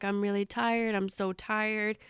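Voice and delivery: soft, drained retelling of a dazed man; mildly groggy, voice dropped and slowing at the end. Retold or imitated. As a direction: say it softly, as if half asleep. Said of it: "He's not really reacting".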